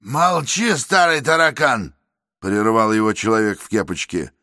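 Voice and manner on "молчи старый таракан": louder, higher bullying voice; angry threats. Acted. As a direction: threaten him, spoiling for a fight. Man in cap threatens Mordotenkov.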